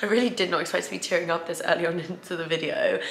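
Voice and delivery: a real catch in the throat, laughing through tears; fighting back tears with a small laugh; choked up. Real, not acted. Vlogger telling viewers she misses her parents, choked up. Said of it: "getting so choked up now".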